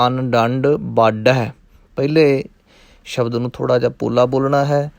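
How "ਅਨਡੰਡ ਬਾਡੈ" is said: ਅਨਡੰਡ said light and soft before ਬਾਡੈ; soft first word. Shown as a demonstration. Teacher shows light ਅਨਡੰਡ to students. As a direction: keep ਅਨਡੰਡ soft, then press ਬਾਡੈ. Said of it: "ਇਸ ਲਈ ਪੋਲਾ".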